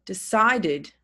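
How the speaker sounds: Decided with the final syllable sounded as id; slow model word for a class; clear id ending. Shown as a demonstration. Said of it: "It's pronounced id".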